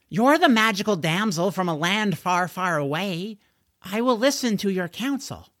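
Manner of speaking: put-on high, grandly earnest boy hero; earnest questing George. George honouring his magical damsel, earnest and lofty. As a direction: proclaim it like a storybook knight.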